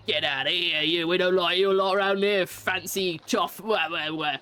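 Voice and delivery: mock-angry telling-off dissolving into wah-wah; mad, gruff imitation. Game character mad at the player for coming round here, mock-angry. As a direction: imitate someone really mad, trailing into gibberish. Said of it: "he gets really mad at you".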